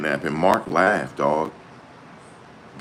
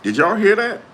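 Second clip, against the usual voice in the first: shocked; 6 dB louder than usual. Real, not acted. Reacting loudly to lawyer's laugh.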